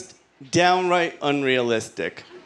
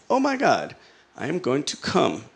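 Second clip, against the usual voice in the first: mock urgent exclamation. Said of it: "I exclaimed".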